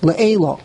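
Le'ela stressed ahead of its last syllable; stress before the end. Shown as a demonstration. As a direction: say Le'ela with the weight early, not on the final syllable. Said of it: "you say Mila'el".

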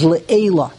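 Le'ela stressed early, not at the end; emphasize the front of Le'ela; stress on first syllable. Shown as a demonstration. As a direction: say Le'ela with an unstressed final syllable. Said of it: "emphasize the first syllable".

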